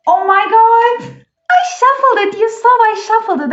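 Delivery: real high, loud shriek of amazement; excited screaming. Real, not acted. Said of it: "I'm sorry for screaming".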